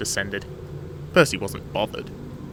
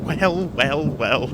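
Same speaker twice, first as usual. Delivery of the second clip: higher-pitched, gleeful drawl; amused laughing; 4 semitones higher, much slower than usual. Acted. Percy having overheard Thomas, amused. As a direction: savour it with amusement. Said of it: "he laughed".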